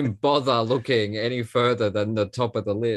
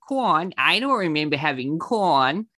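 raised, put-on old showbiz diva voice; Carol Channing; 3 semitones higher, 3 dB louder than usual. Doing celebrity impressions for the podcast, diva voice. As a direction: croon it like a theatrical grande dame. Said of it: "Carol Channing".

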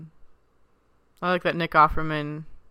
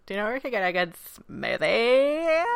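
put-on high-pitched Valley Girl voice; 7 semitones higher than usual. Co-host mimics the movie's teeny boppers, high Valley Girl. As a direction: squeak it out as a mock Valley Girl. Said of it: "kind of a Valley Girl".

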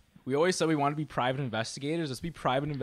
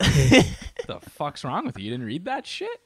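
slow, louder disbelief; slow mock outrage; 7 dB louder, slower than usual. Mock scolding, drawn out.

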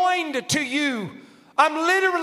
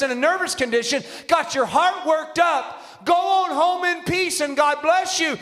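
quoted prophet's comfort; 3 semitones higher than usual. Retold or imitated. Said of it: "He said".

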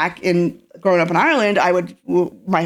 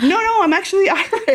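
laughing insistence; 13 semitones higher than usual. Retold or imitated. Retold insisting she is Irish.

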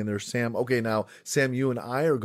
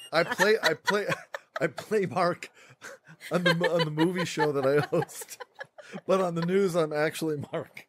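laughing; 5 semitones higher than usual. Real, not acted. Laughing at his own mix-up.

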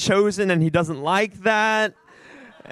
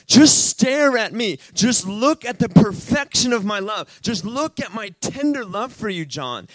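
heartfelt, insistent appeal; earnest divine plea; 3 semitones higher than usual. Retold or imitated. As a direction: urge them lovingly, each phrase lifted. Voicing the Lord's tender words.

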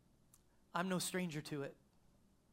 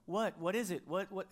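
louder, urgent calling out; yelling from shower; 3 semitones higher, 4 dB louder than usual. Retold or imitated. Husband yelling to his wife from the shower, urgent. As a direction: call through the shower, urgent. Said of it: "so I yelled it out of the shower".

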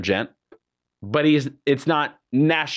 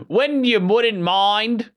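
put-on posh English accent; 9 semitones higher, much slower than usual. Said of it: "more like Mary Poppins, you know, esque".

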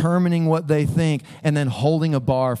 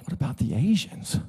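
softer, mock-bewildered echo; baffled echo; 6 dB quieter than usual. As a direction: repeat the question in puzzlement, rising at the end. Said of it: "I was like".

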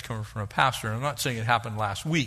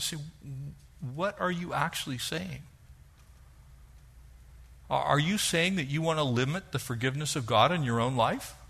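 softer, probing, pastoral; gentle questioning; 4 dB quieter than usual. Real, not acted. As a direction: ask it quietly, like a counselor.

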